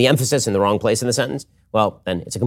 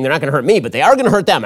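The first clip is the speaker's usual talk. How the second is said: ME and THEM set against each other; stress on ME and THEM; 3 semitones higher, 4 dB louder, faster than usual. Shown as a demonstration. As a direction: lean on "me", then on "them", in contrast. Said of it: "One way of reading that".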